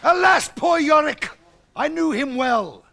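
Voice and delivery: hammed-up tragic actor, high and slow; mock Shakespeare. Comic parodies Hamlet to the pub, hammed-up. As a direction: declaim it like a ham actor.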